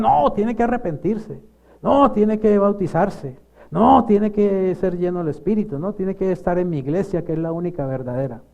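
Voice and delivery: mock dogmatic protest, high and loud; hammed-up loud insistence; insistent objectors. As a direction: imitate scolding objectors, leaning on each "No". Acting out objectors' insistent demands.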